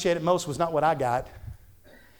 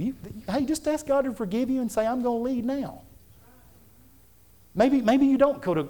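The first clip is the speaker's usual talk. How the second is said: raised, high-pitched pulpit exhortation; fervent preaching; 9 semitones higher than usual. Real, not acted. Preacher urging husbands to lead in prayer, high fervent preaching. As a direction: urge the congregation from the pulpit, voice pitched up.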